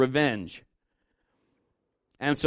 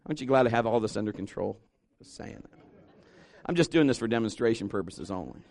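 low, soft deadpan aside; mock-composed aside; 5 semitones lower, 5 dB quieter than usual. Preacher reassuring the crowd after his outburst, quiet deadpan. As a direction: drop suddenly to a low, controlled voice.

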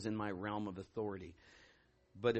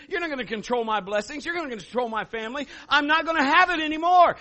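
high, loud preaching to the crowd; rally them, preach it out; full-force preaching; 14 dB louder than usual. Acted. Pastor urging congregation to defy the giant, full-force preaching.

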